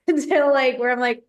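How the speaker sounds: talking through a laugh; bubbling laughter. Real, not acted. Laughing while telling success.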